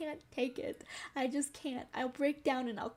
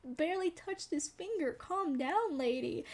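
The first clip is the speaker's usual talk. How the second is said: friend defending; 4 semitones higher than usual. Retold or imitated. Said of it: "she was like".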